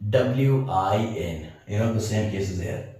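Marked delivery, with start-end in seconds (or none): 0.1-1.5 R U N spelt out slowly, letter by letter; slow spelling. Shown as a demonstration. Teacher spells run slowly for students.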